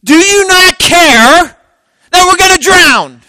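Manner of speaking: the disciples yelling at Jesus in the storm; frightened sailors crying out "Do you not care"; panicked accusation. Acted. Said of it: "What do they accuse him of?".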